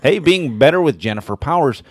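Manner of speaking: a mock sultry radio voice; sultry narrator. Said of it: "my sweet, sultry voice".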